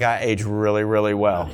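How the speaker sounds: mock smug. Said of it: "I was like".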